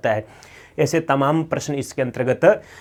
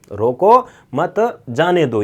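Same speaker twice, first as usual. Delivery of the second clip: slow रोको मत, break, then जाने दो; pause after मत; slower than usual. Shown as a demonstration. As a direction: stretch रोको मत, set जाने दो apart. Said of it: "यानी छूट है उसको".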